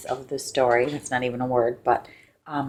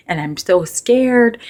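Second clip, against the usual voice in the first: scared; 8 semitones higher, 5 dB louder, slower than usual. Retold or imitated.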